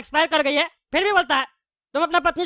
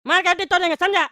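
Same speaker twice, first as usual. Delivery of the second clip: angry retort; 3 semitones higher, slower than usual. Acted. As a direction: roar back in outrage. Furious retort to owner.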